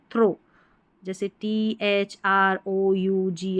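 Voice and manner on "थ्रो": 'थ्रो' rhyming with go; wrong reading. Shown as a demonstration. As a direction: mimic the mistaken थ्रो, ending in O. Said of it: "वो बिल्कुल गलत है". ('थ्रो', ओ वाला गलत उच्चारण)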